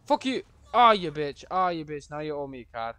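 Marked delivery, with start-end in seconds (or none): 0.1-0.4 loud furious yell at the screen; angry shout. Real, not acted. Raging at a game character, loud furious shout. 0.7-2.1 angry yell. Real, not acted. Raging at game character.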